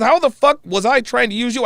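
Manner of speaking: mild imitation of an angry friend; retold heated comeback. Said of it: "he got heated".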